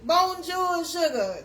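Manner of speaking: mock French hello; French greeting. Shown as a demonstration. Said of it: "in your language".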